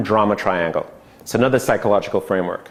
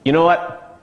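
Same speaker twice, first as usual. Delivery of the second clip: rescuer; 4 semitones higher than usual. Shown as a demonstration. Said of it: "The rescuer is".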